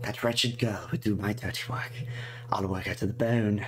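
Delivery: gleeful mock-sweet list of revenges; lightly voiced spiteful girl. The diary girl plotting against her tormentors, lightly spiteful. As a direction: savour each nasty wish lightly.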